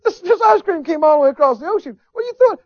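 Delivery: high, loud exasperated cry; shocked outburst. Retold or imitated. Missionary scolding the woman for throwing the ice cream, high and shocked. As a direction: cry out in disbelief at the waste.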